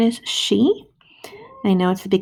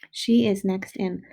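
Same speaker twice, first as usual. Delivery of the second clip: slow, word by word; teacher rereading a sentence; slower than usual. Shown as a demonstration. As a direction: reread it slowly for kids. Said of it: "listen to the sound you hear".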